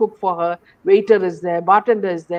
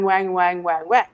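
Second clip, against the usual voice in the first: a lower, droning "wang, wang, wang, wang"; mock twang; 3 semitones lower than usual. Scoffing that the girls' talk is only noise, lower mock twang. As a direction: drone it like meaningless foreign chatter. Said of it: "all you can understand is only twang".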